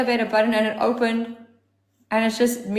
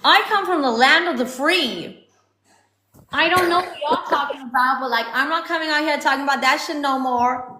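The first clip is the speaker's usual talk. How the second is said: sassy American accent, pitched up and lively; 3 semitones higher than usual. Shown as a demonstration. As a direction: put on a hammed-up American accent. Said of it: "my American accent, oh goodness".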